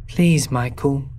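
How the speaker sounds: slow, plaintive begging; plaintive plea. Acted. Lost Ashley begging Michael to let her in, slow and plaintive. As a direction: draw out each phrase, pleading gently. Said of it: "I hear a plaintive voice say".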